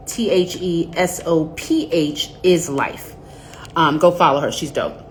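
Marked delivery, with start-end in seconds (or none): 0.1-3.2 "T H E S O P H" spelled letter by letter, slowly; spelling it out. Shown as a demonstration. Host spelling a blog name for viewers, slow letter by letter. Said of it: "and it's spelled".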